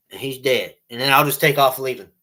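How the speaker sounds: normal talking voice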